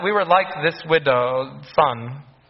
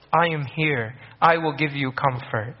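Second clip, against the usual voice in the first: gentle comfort; 2 semitones lower than usual. Retold or imitated. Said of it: "Do not weep was".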